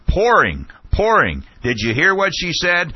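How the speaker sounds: high, loud retold outburst; Ashcroft shouting. Red-faced official interrupting a questioner, imitated shouting. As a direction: imitate an indignant shout, pitched well up. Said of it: "and he was shouting".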